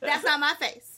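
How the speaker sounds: laughing through the line. Pretend. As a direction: laugh out the words. Laughing repeat.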